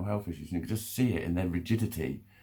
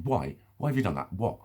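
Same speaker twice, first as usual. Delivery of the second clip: mock interrogator firing questions; demanding interrogation; 2 semitones higher than usual. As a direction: act out someone demanding an answer. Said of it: "when people demand to know something".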